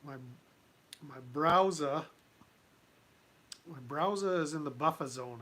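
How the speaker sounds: self-mocking Boston accent, dropped Rs on browser and buffer; awful Boston accent. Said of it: "That's my awful, uh, Boston accent".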